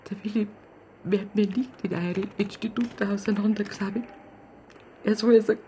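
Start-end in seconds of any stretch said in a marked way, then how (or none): 0.1-4.0 whispered, soft and fierce; bitter whisper. Acted. Grieving aunt whispers her refusal to the police. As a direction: hold it back to a whisper. Aunt's grief, voice drops.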